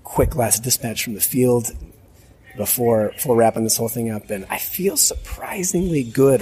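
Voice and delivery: rough raspy voice; hoarse from too much talking; smoker's rasp. Real, not acted. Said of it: "from sounding like Chainsmoker here".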